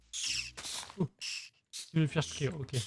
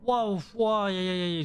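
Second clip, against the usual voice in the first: scared yelping; 4 semitones higher, slower than usual. Real, not acted. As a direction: yelp from a sudden fright. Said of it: "j'ai eu peur".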